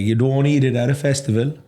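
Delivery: lilting Cork mimicry; strong Cork accent. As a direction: imitate a Cork lad's saying. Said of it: "their accent is so strong".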